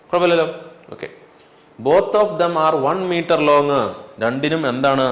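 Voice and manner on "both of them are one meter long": very slow, word by word; slow dictation. Shown as a demonstration. Teacher dictating a definition to students, very slow. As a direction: spell out the definition for notes. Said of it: "dictating problem text".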